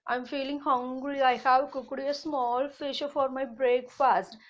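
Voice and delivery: a hint of a duck character. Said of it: "The duck said".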